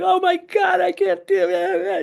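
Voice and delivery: high strained mock yell; retold yelling. Woman in group therapy breaking down, high desperate yell. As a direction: cry out in despair, high and loud. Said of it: "And then she started yelling".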